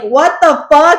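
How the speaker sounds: slow, laughing what the fuck; puzzled outburst through laughter; laughing disbelief. Retold or imitated. Bakshin baffled by Lydia, laughing outburst. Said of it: "Bakshin's like".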